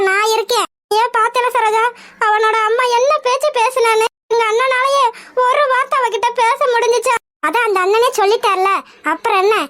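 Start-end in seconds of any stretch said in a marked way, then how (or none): 4.3-7.1 sobbing complaint; tearful lament; crying. Acted. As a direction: ask through tears. Mother lamenting, weeping.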